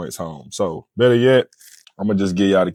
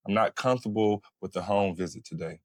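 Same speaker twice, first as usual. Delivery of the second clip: calm boundary; 4 dB quieter than usual. Shown as a demonstration. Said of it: "Just calm, collected".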